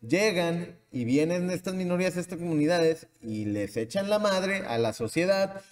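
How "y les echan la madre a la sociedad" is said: ordinary talk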